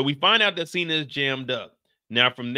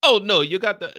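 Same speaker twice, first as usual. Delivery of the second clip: loud, higher bad British accent that turns Irish; fumbled mock British, almost Irish; attempted UK accent; 4 semitones higher, 6 dB louder than usual. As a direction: try British and slip toward Irish. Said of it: "sounds like it's about to be Irish".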